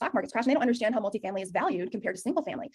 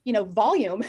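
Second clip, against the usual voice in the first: demo of loud volume; 5 dB louder, slower than usual. Shown as a demonstration. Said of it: "I can't speak at this".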